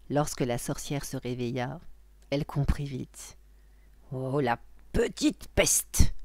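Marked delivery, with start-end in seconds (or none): 4.1-6.1 slow, loud witch's outburst; mock howl of anger, drawn out. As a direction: stretch out the curse as a cross witch. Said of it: "hurla-t-elle".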